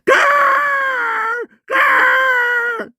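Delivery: long, high circling-crow caws; crow screech. Shown as a demonstration. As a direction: screech like a crow wheeling overhead. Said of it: "까마귀 새끼가 막 와가지고". (높고 길게 내지르는 까마귀 소리)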